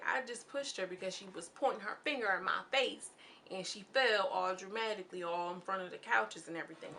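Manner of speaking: lightly put-on Southern country accent. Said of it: "Y'all give me a thumbs up for my country accent".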